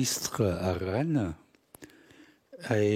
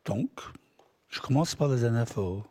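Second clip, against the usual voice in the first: usual speaking voice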